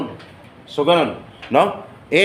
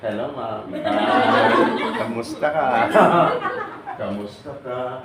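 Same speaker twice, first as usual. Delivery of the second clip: gentle greeting; 4 semitones lower, slower than usual. Retold or imitated. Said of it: "Ang sagot ko sa'yo".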